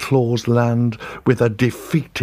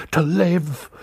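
whispered longing; 6 semitones higher than usual. A narrator's reading. Longing to survive.

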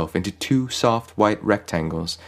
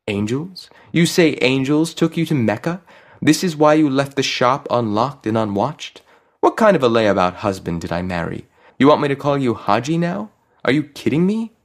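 high, incredulous questions rising at the end; exasperated, pitched-up nagging; scolding wife; 6 semitones higher than usual. A narrator's reading. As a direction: berate a useless husband in disbelief. Imagined wife scolds her husband.

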